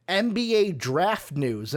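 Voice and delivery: slow, drawn-out touch of sarcasm; a little sarcastic. Real, not acted. Host introducing draft news to his co-host, a little sarcastic. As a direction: draw it out with light sarcasm. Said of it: "I say that little sarcastically".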